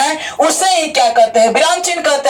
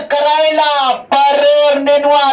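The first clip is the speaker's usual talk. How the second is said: drawn-out list dictation; much slower than usual. Acted. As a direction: stretch each item of the list. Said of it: "ऐसे बोले". (सूची को खींच-खींचकर बोलना)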